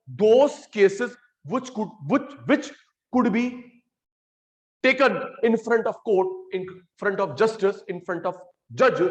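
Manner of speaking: slow dictation. Shown as a demonstration. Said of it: "dictating definition to class".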